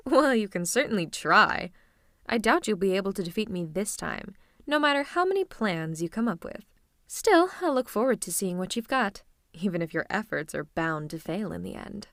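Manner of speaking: grand, confident villain taunt; villain monologue. Acted. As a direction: relish a theatrical boast to a rival. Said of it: "you know I love my monologues".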